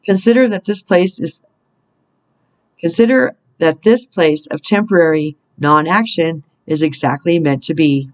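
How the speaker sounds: measured, deliberate reading with spaced phrases; read-aloud spiritual message. Real, not acted. Reader guiding listeners through a roadblock, measured inspirational reading. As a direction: read it out as guidance, pausing between thoughts.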